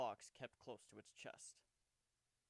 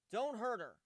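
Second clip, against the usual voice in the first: worried, much louder, higher shout; calling out; 10 semitones higher, 12 dB louder than usual. Acted. Warren shouts after Cadance to spare Kuno, loud. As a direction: call out after her in alarm. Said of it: "he called after Cadance".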